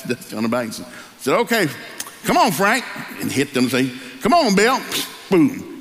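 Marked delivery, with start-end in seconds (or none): 1.4-2.8 high, rising call to a mule. Retold or imitated. Farmer calling to his mule. 4.2-4.8 high, rising call to a mule. Retold or imitated. Farmer calling to his mule.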